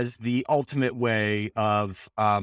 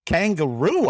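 high, loud hammed-up Aussie accent; exaggerated Australian caricature, pitched up; mock Australian accent; 7 semitones higher, 5 dB louder, slower than usual. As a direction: cry it out in a put-on Australian accent. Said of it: "woman is dying in bed".

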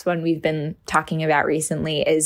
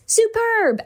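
leaps way up high on Superb; all-caps shout, pitched way up; all caps excitement. Shown as a demonstration. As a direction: burst out like the caps demand. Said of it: "The next one reads in all caps".

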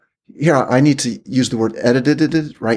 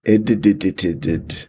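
stuttering glitch; 5 semitones lower than usual. Pretend. Glitchy word game.

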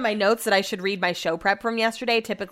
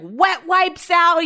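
incredulous drawl; 9 semitones higher, 5 dB louder, much slower than usual. Real, not acted. Incredulous emphasis.

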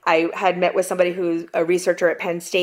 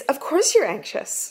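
reassuring line; 6 semitones higher, slower than usual. Retold or imitated. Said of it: "my latest line to people".

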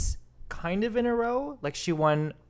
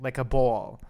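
faux New York accent. Shown as a demonstration. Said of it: "faux New York accent".

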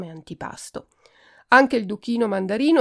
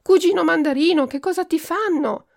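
much higher, louder frantic call; alarmed; 9 semitones higher, 5 dB louder than usual. A narrator's reading. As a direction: rush in with a pounding heart. Alarmed aunt rushes in.

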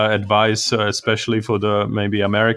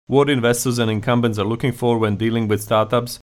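smooth, even scripted intro over the theme; steady announcer read of the show intro; podcast intro read. Acted. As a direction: read it like a polished show opener.

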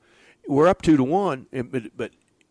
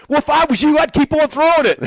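amused concession; 13 dB louder than usual. Retold or imitated.

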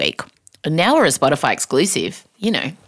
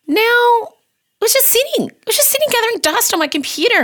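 mock lament. Mock lament over wasted show.

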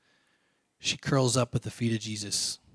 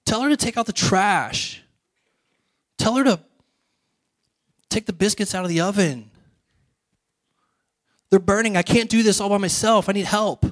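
high, hammed-up whining, getting louder; mock teenage meltdown, whiny and high; whiny teenager; 8 semitones higher, 4 dB louder than usual. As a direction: escalate into an overwrought, high-pitched complaint.

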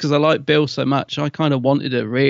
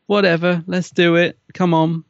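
imitating Heather; 4 semitones higher than usual. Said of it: "she was a bit like".

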